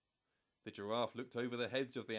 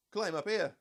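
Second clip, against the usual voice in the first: higher, loud call from above; 7 semitones higher, 9 dB louder than usual. A narrator's reading. Monkey calling the animals up, loud. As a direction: shout down from the treetops. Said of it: "called the monkey from the treetops".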